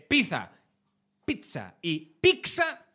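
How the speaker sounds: slow, "pizza" as pitha, pitsa and piksa in turn; three pizza pronunciations. Shown as a demonstration. Comedian compares three ways of saying "pizza", slowly. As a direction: contrast each "pizza" slowly. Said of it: "yo creo que se nota la diferencia".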